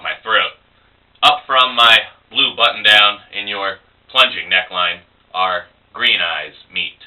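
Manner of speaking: measured poetry reading with pauses between phrases; poem recital. Acted. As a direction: recite it deliberately, line by line. Reads their poem aloud.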